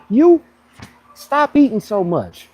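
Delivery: slow, loud jab at a cousin's eating; mock blunt teasing. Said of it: "be like this".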